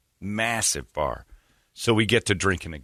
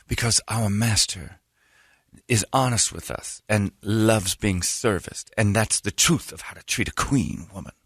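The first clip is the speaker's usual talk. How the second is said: lightly voiced devotee. Voicing the woman explaining devotion.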